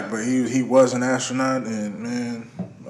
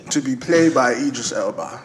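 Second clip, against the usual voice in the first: put-on British accent. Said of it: "You sound African and British".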